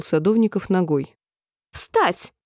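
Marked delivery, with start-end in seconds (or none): 1.7-2.3 high, sharp command; queen's shrill order to stand; piercing shout. A narrator's reading. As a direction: bark it up high at the gardeners. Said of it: "пронзительно крикнула королева".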